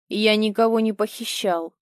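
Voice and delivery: snorting denial. Acted. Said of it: "фыркнул Толик".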